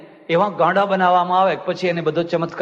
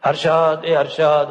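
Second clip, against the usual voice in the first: mother calling her son, louder; 4 dB louder, slower than usual. Retold or imitated. Mother calling son Harshad across the house, raised call. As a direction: call the boy from the next room. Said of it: "છોકરાને બૂમ પાડી".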